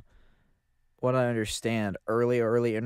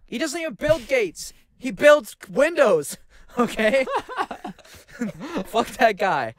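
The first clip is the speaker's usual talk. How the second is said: much higher and louder, gleeful ranting; excited rant; 11 semitones higher, 7 dB louder than usual. Real, not acted. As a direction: crow it like a wild rant. Ranting about Bill Gates.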